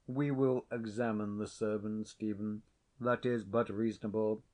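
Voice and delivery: lightly voiced haughty laird; cool stern laird. A narrator's reading. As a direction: hold him off with cool authority. Sir John the laird voiced.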